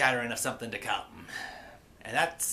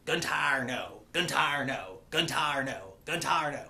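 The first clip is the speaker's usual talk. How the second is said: repeating over and over; slower than usual. Retold or imitated. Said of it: "he starts repeating over and over again".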